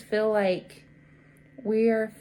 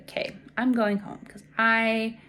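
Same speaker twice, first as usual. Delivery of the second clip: fed-up relief; 3 semitones higher, 6 dB louder than usual. Retold or imitated. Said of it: "I was like".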